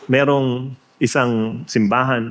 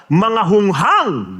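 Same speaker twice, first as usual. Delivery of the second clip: angry rebuke; 3 semitones higher, much slower than usual. Retold or imitated. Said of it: "Galit na galit".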